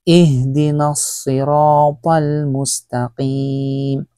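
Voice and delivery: slow, drawn-out tajweed chant; slow Quran recitation. Shown as a demonstration. Teacher recites the Fatiha slowly for students.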